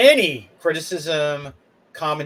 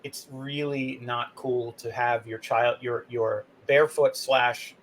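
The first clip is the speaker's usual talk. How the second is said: dispassionate; 4 semitones lower, 3 dB quieter than usual. Pretend. Customer calmly telling a mother off, dispassionate. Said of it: "sort of be dispassionate".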